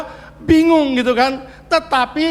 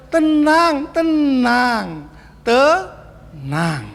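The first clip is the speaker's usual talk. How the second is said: fading soothing; much slower than usual. Shown as a demonstration. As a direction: let each word settle down. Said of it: "preacher soothes".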